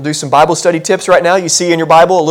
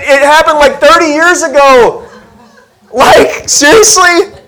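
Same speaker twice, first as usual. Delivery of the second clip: put-on higher, slow, wondering old man's voice; old Abram; 6 semitones higher than usual. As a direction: play Abram marvelling at his old age. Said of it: "he is thinking to himself".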